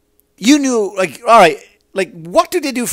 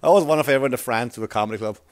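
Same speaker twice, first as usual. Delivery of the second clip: laughing; 2 semitones lower, 4 dB quieter than usual. Real, not acted. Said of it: "that's the laugh".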